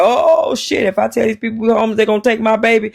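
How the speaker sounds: sudden high panicked inner voice; retold panic, high and fast; panicked thought. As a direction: jump up high in a rush of panic. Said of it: "I panicked".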